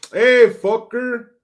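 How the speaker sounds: loud, high, slow drawn-out holler; mock rowdy holler. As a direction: holler back in a put-on fan voice. Hollering back at chatter.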